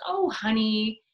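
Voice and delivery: high, bright reassurance that misses the point; husband brushing off his wife's lost work, high and breezy; breezy cheerful husband. Acted. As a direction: chirp it like nothing's wrong. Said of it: "your husband comes in and says".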